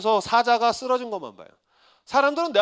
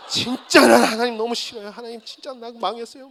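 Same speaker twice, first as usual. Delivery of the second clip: mock despairing complaint; 3 semitones higher, 5 dB louder than usual. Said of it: "막 울고 울고 울다가".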